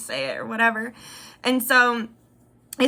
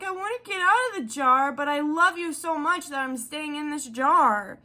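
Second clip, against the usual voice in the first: lightly higher wistful cow; a hint of a sad baby cow; 3 semitones higher than usual. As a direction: sigh it like a lovesick little cow. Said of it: "you were like".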